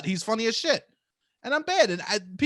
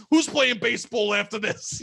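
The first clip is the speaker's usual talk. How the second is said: mock yelling; 3 semitones higher, 4 dB louder than usual. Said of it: "just fucking yelling".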